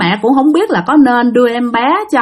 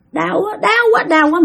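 acted pain; 8 semitones higher than usual. Acting out beaten woman's pain.

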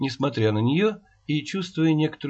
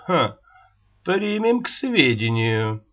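smirking. Acted. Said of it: "усмехнулся Рогачёв".

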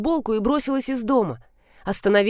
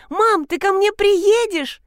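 put-on much higher, slow little-boy voice; a small boy asking hopefully; pleading child; 11 semitones higher, 4 dB louder, slower than usual. A son asks his mother to come to him, hopeful.

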